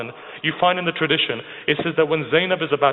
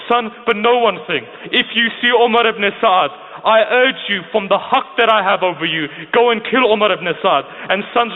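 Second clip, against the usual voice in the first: impassioned exhortation; 3 semitones higher than usual. Retold or imitated. Mother sends her two sons to fight, impassioned retold exhortation. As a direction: preach it with insistent, rising urgency.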